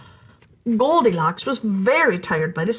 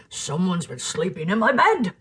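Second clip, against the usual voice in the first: growling Papa Bear; 4 semitones lower than usual. Acted. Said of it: "Papa Bear growled".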